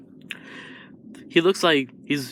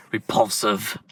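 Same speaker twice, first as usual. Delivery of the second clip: softer and lower after a sigh; disgusted; 5 semitones lower, 6 dB quieter than usual. Acted. Doctor muttering about the villain's quirk, low disgusted. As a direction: sneer the word with contempt.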